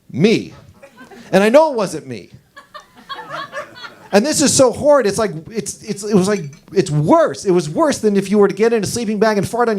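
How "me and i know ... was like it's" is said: laughing. Real, not acted. Comic tells the crowd the smell was horrid, laughing. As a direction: crack up while telling it. Laughing at his own story.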